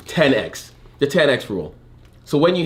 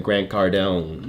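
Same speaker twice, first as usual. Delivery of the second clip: slow, drawn-out imitation of a twang; mock twang; 3 semitones lower, much slower than usual. Host teasing co-host about his pronunciation, mock twang. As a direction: exaggerate the twang, stretching the name. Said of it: "with a little twang in your voice".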